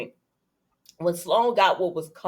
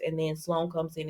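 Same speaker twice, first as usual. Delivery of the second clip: ordinary talk, nothing marked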